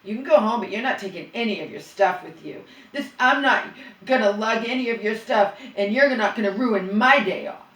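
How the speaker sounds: mocking his sneer at her; sneering imitation. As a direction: sneer it like he talked. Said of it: "this is exactly how he talked".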